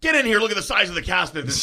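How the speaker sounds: high, loud shout to a colleague; amazed calling out. Retold or imitated. Cop calling Joe in to see the cast, amazed shouting. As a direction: holler for someone to come and gawk.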